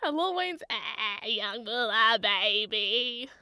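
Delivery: slow drawn-out rapper voice, lightly done; a playful impression of a rapper, dragged out slow; slow rapper drawl, mock rapper. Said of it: "my best Wheezy impression".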